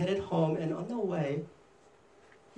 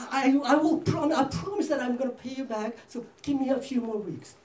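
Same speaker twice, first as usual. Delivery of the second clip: higher-pitched acted begging; pleading; 6 semitones higher than usual. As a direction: play a debtor imploring for more time. Debtor begs the king for time.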